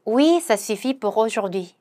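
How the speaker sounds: very slow, careful French; slow pronunciation model; slow demo. Shown as a demonstration. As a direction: lay out each syllable slowly for learners. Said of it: "pronunciation demo".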